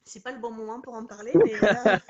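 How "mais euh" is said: burst of laughter. Real, not acted. Laughing at her own aside.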